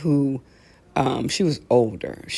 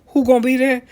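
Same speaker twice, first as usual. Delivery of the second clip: suspicious demand; 8 semitones higher, 6 dB louder, faster than usual. Retold or imitated. Acted quote asking who attends.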